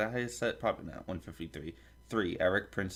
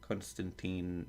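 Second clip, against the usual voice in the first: slow, softer stab at Russian accent; attempted Russian accent; 5 dB quieter, slower than usual. Shown as a demonstration. Reader testing a name in a shaky attempt at Russian accent. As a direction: try a Russian accent, unconvincingly. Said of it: "say it with a Russian accent".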